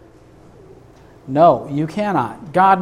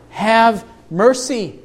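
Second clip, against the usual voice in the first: pleading prayer; 5 semitones higher, slower than usual. Acted. David's plea voiced in prayer.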